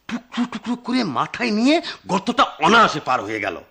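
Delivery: chuckling through the punchline; laughing. A narrator's reading. The narrator telling the absurd ending, laughing. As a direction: let a laugh bubble under the words.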